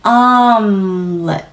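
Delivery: "omelet" stretched slowly, then the t cut off sharply. Shown as a demonstration. Teacher showing how to cut the air off after "omelet". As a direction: draw out "omelet" and stop the air dead at the end. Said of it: "하고 공기를 툭".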